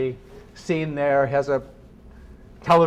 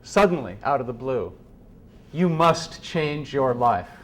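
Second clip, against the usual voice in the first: solemn quoted line. Retold or imitated. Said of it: "Rilke says".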